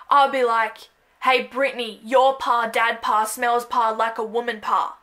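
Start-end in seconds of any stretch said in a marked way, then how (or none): 1.2-5.0 secret pa language. Pretend. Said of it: "We create a secret language".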